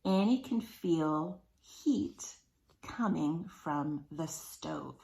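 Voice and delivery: slow, carefully paced sentence reading; slow read-aloud. Shown as a demonstration. Teacher reading a sentence to children, slow. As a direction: read it slowly for young readers. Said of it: "we're gonna read the sentences".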